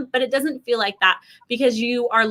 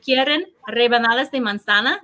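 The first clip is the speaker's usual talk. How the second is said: Spanish phrase. Shown as a demonstration. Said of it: "you can say".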